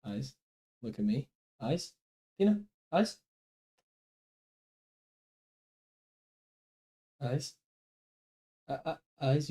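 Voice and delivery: quietly coaxing the dog to look; quiet dog command. Real, not acted. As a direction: hush it to get her focus.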